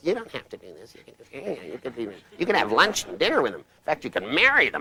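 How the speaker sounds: whiny, snivelly, little pleading voice swooping up. Speaker demonstrating the inner voice that talks you out of it: whiny snivelly voice. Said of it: "a whiny little snivelly voice that comes swooping up".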